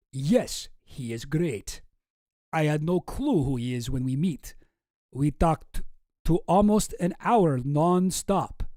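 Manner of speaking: put-on amateur Russian accent reading an email; Boris with Russian accent. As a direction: keep up the mock-Russian accent. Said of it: "This is also from Boris".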